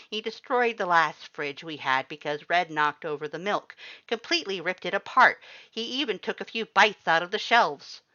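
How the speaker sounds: high, loud, outraged skeleton; indignant Papyrus. A narrator's reading. Papyrus tells the human about the wrecked fridge, loud indignant. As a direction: build up the outrage over the fridge.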